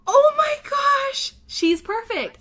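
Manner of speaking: ecstatic squeal. Real, not acted. Proud owner squealing over her perfect pug, ecstatic. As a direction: stretch it out in giddy delight.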